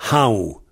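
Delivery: "Hao" ending in a W glide; finale en W. Shown as a demonstration. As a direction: round off "Hao" into a W. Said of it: "il y en a qui prononcent W". (« Hao » avec la finale prononcée W)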